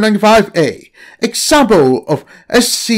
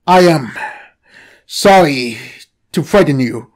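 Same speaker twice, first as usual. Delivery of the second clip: lightly voiced, lower calm snake; talking snake; 4 semitones lower than usual. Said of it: "the snake said".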